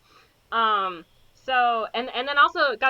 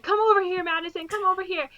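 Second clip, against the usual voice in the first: higher-pitched urgent dad orders; higher, insistent call; mock commanding dad; 8 semitones higher than usual. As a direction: call her over insistently. Father ordering daughter over.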